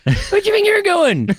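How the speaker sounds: rural Oxfordshire yokel, squeaking up high on the question; a pub local's Oxfordshire country accent, challenging. Retold or imitated. Imitating a rural Oxfordshire local in a fancy pub, hammed-up country accent. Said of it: "you'll just hear".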